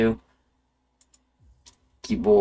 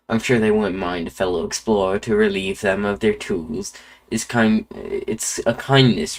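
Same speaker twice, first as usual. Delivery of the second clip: lightly put-on Irish accent; a hint of Irish in a storytelling explorer; Jacksepticeye accent. Quirrell telling the player why he came, light Jacksepticeye Irish accent. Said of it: "gave him the Ja-, Jacksepticeye accent".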